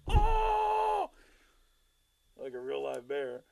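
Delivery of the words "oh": high startled yelp; scared yelp. Retold or imitated. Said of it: "and he's like".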